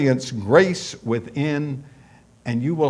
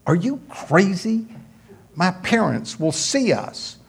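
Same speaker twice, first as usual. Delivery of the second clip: put-on girl's voice; 8 semitones higher than usual. Girl refuses boy's kiss.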